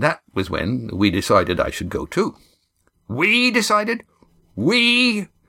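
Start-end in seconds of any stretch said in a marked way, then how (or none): 3.1-5.2 very high-pitched, disbelieving, incredulous tone. Narrator voicing Roaring Jack repeating Cam's words, incredulous. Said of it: "Roaring Jack repeated incredulously".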